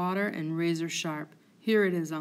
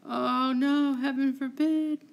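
higher pitched shocked cry; horrified gasp; 6 semitones higher than usual. Acted. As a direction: recoil in horror. Horrified at the murder news.

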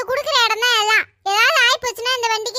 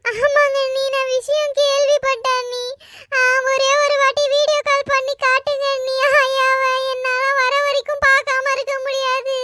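tearful pleading on the phone; crying while talking. Acted. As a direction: plead with sister-in-law through tears. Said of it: "இப்படிலாம் நீ அழுது பேசி".

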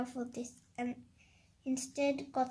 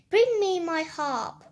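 loud, raised giant's command; giant's roar; 4 semitones higher, 8 dB louder than usual. A narrator's reading. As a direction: roar out an order to the cook. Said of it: "roared the giant".

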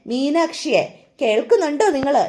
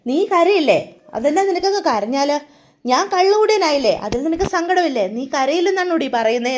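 put-on drunk husband; 3 semitones higher than usual. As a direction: needle her like a tipsy husband who wants tears. Drunk husband pestering his wife.

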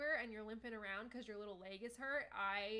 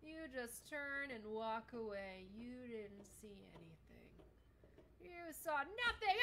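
sly villain; slower than usual. Acted. Cat gloating over fooled humans.

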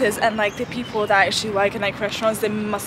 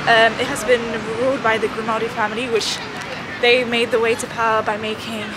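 short of breath climbing stairs; breathless from the stairs. Real, not acted. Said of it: "sorry, I'm out of breath".

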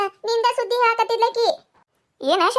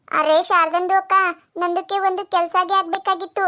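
put-on Dakhni-accented Kannada. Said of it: "ಅದ್ರ ಭಾಷೆ ನಮಗ್ ಅರ್ಥ ಆಗುದಿಲ್ಲ".

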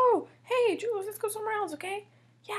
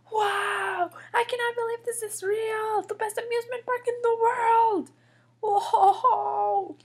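awed excitement; 3 semitones higher, 4 dB louder than usual. Acted. Julian first sees the park.

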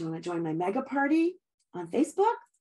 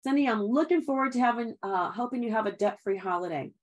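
assumptive close. Shown as a demonstration.

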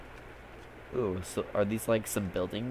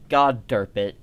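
frustrated curse; 10 dB louder than usual. Real, not acted. Frustrated gamer after failing jump.

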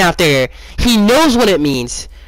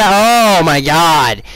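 exasperated; 3 dB louder, much slower than usual. Real, not acted. Exasperated over the bad defense.

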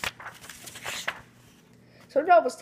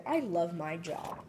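dreamy declaration; 3 semitones lower, 6 dB quieter, slower than usual. Acted. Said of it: "he declared".

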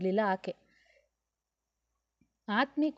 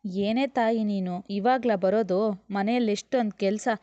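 playful complaint; 3 dB louder than usual. Acted. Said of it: "ಗೆಳತಿಯನ್ನ ದೂರುತ್ತಾ".

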